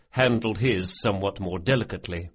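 ordinary delivery

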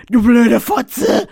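loud, slow pained yell; shouting in pain. Acted. Rainer hit by the whip, loud pained yell. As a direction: yell the insult through the pain. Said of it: "schrie Rainer".

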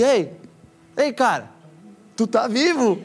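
high, loud, laughing disbelief; excited call. Retold or imitated. Messaging the DJ he'd prayed for, loud laughing joy. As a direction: call out to a friend back from the dead.

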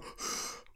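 short heavy exhale; imitated out-of-shape breath; demonstrated breathing. Shown as a demonstration. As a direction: let out a mock winded puff. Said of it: "bullshit on my fucking breath".

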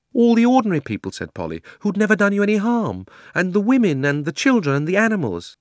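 put-on a girl's shocked outburst; indignant girl. A narrator's reading. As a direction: plead hotly for the innocent. Polly protests to the queen.

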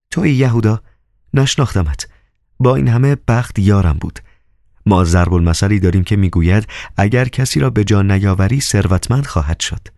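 mildly sharp, mocking brush-off; biting tone. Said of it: "به لحنی گزنده". (با لحنی کمی گزنده و صدای زنانهٔ زیرتر)

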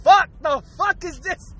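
mock yell that trails away; retold scream. Podcaster acting out walking into a terrible smell, retold scream. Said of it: "you scream out like".

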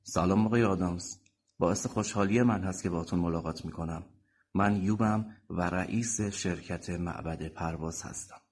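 measured, lightly firm introduction; a touch of firmness in the voice. Acted. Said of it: "مرد با صدایی محکم گفت".

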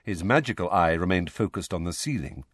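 ordinary delivery, nothing marked

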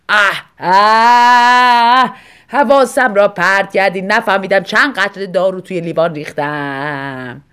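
wife crying out in annoyance; exasperated cry. A narrator's reading. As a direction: snap at him in irritation.

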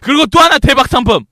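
hyped-up bonus reveal; excited announcement. Acted. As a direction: sell it like a big prize. Pitching bonus prize.

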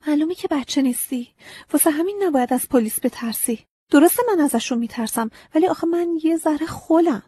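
put-on high, earnest child's voice confessing; young girl pleading. A narrator's reading. Agnes confessing to the scarecrow, high childlike pleading. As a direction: speak up as a small girl owning up.

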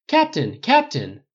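high, loud shouted questions; urgent pack-of-reporters holler; clamoring reporters. A narrator's reading. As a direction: shout over a press scrum for attention. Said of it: "The reporters clamored as one".

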